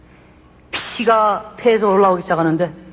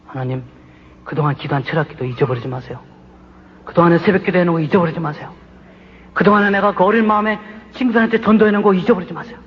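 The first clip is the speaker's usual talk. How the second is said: confident pleading prayer. Retold or imitated. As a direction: remind God of every prayer, growing bolder. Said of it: "하나님 앞에 자신 있더라고요".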